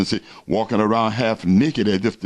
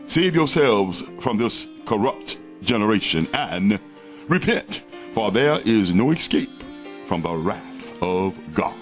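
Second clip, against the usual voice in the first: religious zealot. Real, not acted. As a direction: warn them like a street preacher. Closing call to repent.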